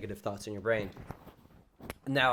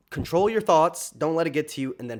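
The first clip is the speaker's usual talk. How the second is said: firm self-command; 4 semitones higher, 6 dB louder than usual. Retold or imitated. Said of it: "I literally just said".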